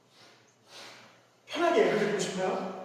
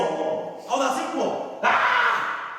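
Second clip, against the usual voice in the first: preacher demoing a sorrow-shout; sad then a shout; 3 semitones higher, much slower than usual. Shown as a demonstration. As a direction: cry out to shake off sadness. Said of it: "슬플 때 소리 질러야 돼요".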